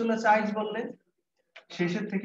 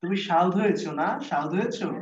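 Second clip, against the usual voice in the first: Barishal villager. Retold or imitated. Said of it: "বরিশালে সাধুরে বলে সাউথ".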